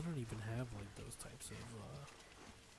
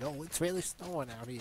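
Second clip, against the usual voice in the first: mock crazy old person, a bit raised; 3 semitones higher, 3 dB louder than usual. Teasing partner about the snow remark, crazy old person. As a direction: lightly imitate a crazed oldster. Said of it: "like a crazy, like, old person".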